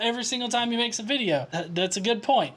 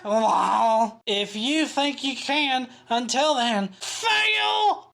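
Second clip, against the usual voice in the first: drawn-out taunt ending in a high cry; hammed-up slow troll voice; mocking commenter; 3 semitones higher, much slower than usual. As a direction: jeer slowly, then yelp the last word. Mock reading of troll comment.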